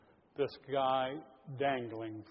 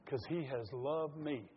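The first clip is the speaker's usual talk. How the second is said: quiet heartfelt prayer. Shown as a demonstration. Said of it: "put your hand on your heart and say".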